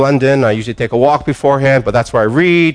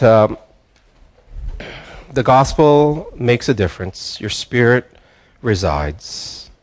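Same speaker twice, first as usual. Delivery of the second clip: closing prayer. Acted. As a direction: pray it gently over the congregation. Pastor leads closing prayer.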